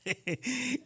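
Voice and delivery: brief high, soft chuckle; short laugh. Real, not acted. Speaker to congregation mid-testimony, short soft laugh. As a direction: let out a short little laugh.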